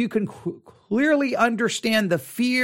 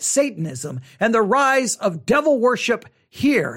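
dramatic ad read; 3 semitones higher, slower than usual. Acted. Reading the ad blurb aloud.

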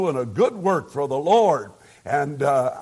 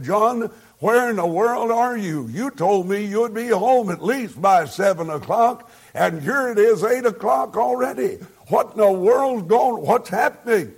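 higher, upset wife on the phone; worried wife; 4 semitones higher than usual. Retold or imitated. Worried wife asks husband where he is, higher and upset. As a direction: play the fretting wife, pitched up.

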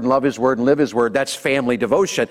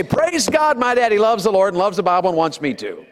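mock joyful kid; 5 semitones higher than usual. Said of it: "You'll say".

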